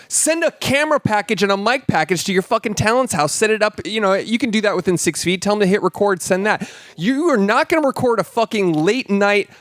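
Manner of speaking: high-pitched indignant tirade; worked-up rant. Real, not acted. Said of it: "I am so mad".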